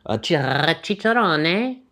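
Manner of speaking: hammy put-on Hispanic accent. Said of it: "not everything is an, an Italian accent".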